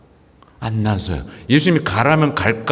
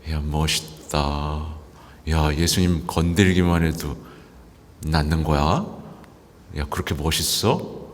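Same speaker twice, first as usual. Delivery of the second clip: hushed awe; 7 semitones lower, 6 dB quieter than usual. Retold or imitated. A priest voicing a crowd member's hushed awe at Jesus. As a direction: murmur like someone dazzled by what they saw.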